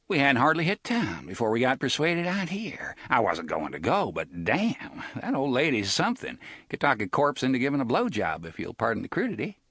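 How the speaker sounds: lightly voiced sly gunman; lightly voiced Reynolds. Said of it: "Reynolds voiced in story".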